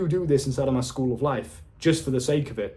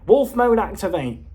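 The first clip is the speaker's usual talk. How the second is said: higher, slow, silly squeaky delivery; stupid squeaky voice; 4 semitones higher, 3 dB louder, slower than usual. Retold or imitated. Friend squeaks the line at three girls, silly squeaky voice. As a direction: squeak it out like a goofy kid. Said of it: "in this stupid, squeaky voice".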